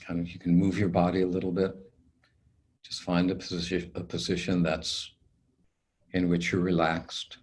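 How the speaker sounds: calm, unhurried meditation guide; guided meditation. Acted. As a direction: ease the listener into stillness, leaving long pauses.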